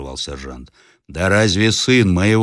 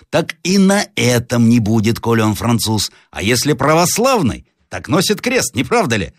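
higher-pitched elder, rising on the key words; lightly voiced village elder; 5 semitones higher, 3 dB louder than usual. Elder asking peasants to agree on the cross test, persuasive role voice. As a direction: reason aloud and seek agreement.

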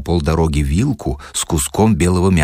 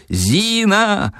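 much higher scared yell; frightened yell; 13 semitones higher than usual. Acted. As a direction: bellow her name in fright. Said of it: "орал испуганный Шариков". (испуганный Шариков орёт, гораздо выше)

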